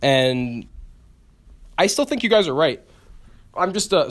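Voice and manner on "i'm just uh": burp mid-sentence; talking through a burp. Real, not acted. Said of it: "sorry, I'm, like, burping right now".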